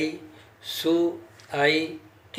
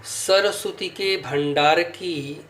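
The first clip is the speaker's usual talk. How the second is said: slow doha recitation; slower than usual. Shown as a demonstration. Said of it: "देखिए".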